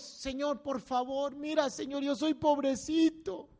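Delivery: slow, whiny plea for pity; self-pitying whine. Pretend. Preacher mocking a believer fishing for pity, whiny. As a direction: beg God like a poor little thing. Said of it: "buscar la lástima de Dios".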